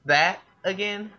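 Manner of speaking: rising, high playful teasing; mischievous. Acted. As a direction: tease her with a knowing grin. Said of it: "Applejack asked mischievously".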